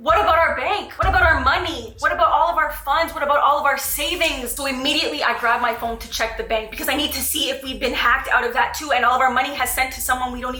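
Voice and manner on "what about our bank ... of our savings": a touch of panic in the questions; mild frantic worry; panicked thoughts. Retold or imitated. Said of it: "thinking in my head is like".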